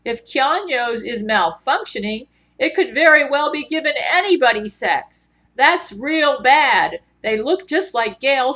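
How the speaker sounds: a hint of a worried Southern judge; Judge Terrance Jenkins voice. Judge Jenkins fretting about the malfunctioning sex robot, lightly voiced. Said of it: "he always talks like this".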